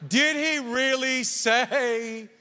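slow, drawn-out doubting question; tempting serpent. Acted. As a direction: stretch the doubt out slyly. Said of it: "he always goes like".

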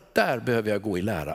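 normal talking voice

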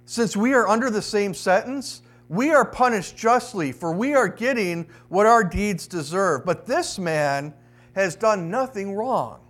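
deliberate, solemn public reading of a verse; scripture reading. A narrator's reading. Preacher reads the criminal's words from Luke, deliberate scripture reading. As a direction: read it out with measured weight.

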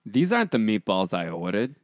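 put-on light New York accent at normal pitch. Auditioning actor trying out the line, mild New York accent. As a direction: read it with a touch of New York. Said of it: "I don't need any New York accent".

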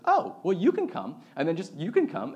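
put-on a child happily waving everyone along; eager kid invite. Kid inviting classmates to party.

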